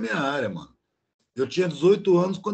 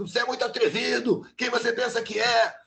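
retold boss yelling; 5 semitones higher than usual. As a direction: replay the boss shouting down at his worker. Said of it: "Ele começou a gritar mais ainda".

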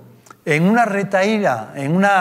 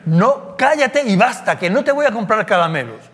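higher, sharp mock scolding of a child; mild mock mother's rebuke; embarrassed mother snapping; 5 semitones higher than usual. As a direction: hush the kid, mildly cross. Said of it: "la madre avergonzada dice".

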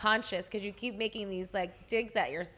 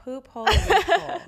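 laughing; 8 semitones higher, 7 dB louder than usual. Real, not acted. Repeating the funny term, laughing.

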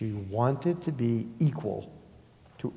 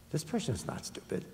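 1 whispered realization; 4 semitones higher, 7 dB quieter than usual. Retold or imitated. Inner thought while meeting Hannah.

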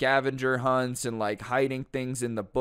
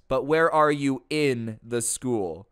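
scoffing; 4 dB louder, slower than usual. Retold or imitated. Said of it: "she scoffs at him".

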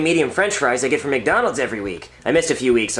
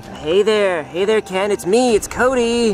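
higher, gentle sing-out greeting; coaxing; 6 semitones higher, slower than usual. Acted. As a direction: coax a wary creature in a higher voice. Coaxing the monster to come.

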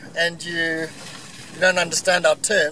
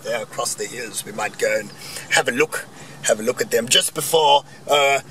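mock upper-class English twit; lightly hammed-up posh English voice; posh English accent. Mocking upper-class English showing off with animal terms, posh English accent. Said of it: "Sorry about the accent".

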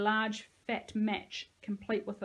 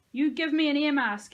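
high, loud demand; shrieked; 6 semitones higher, 9 dB louder than usual. A narrator's reading. Boy demands a mask from the pit, shrieked. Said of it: "he shrieked".

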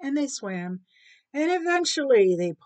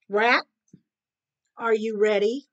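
louder, firm call to the rat; calling cat; 6 dB louder than usual. Acted. Groomed cat calls rat, expectant. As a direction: call out the question.

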